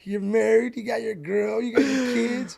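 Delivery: an exasperated father setting his son straight; scolding dad. Retold or imitated. Dad telling his son he should've bought a truck, loud scolding. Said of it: "he's like".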